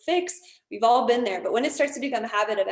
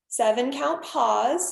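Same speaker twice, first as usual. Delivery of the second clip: slow counted cue; 3 dB louder, much slower than usual. Shown as a demonstration. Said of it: "So it's a four count inhale".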